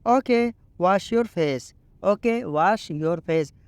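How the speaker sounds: very slow, each English word laid out clearly; slow teaching read. Shown as a demonstration. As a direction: model the sentence slowly for learners. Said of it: "अपना चेहरा धोकर आओ".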